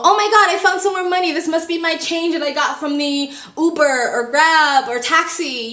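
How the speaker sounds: high, fast mock surprise; playing stupid. Traveler pretending to find money, hammed-up surprise. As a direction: fake delight at found money. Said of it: "you know, play stupid".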